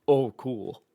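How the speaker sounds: dry, sarcastic reaction; understated mock approval. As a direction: feign being impressed, with sarcasm. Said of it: "Like, very sarcastic".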